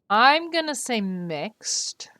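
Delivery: whispered slow aside; a conspiratorial whisper to chat. Real, not acted. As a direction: breathe it out as a secret aside. Aside while choosing answer.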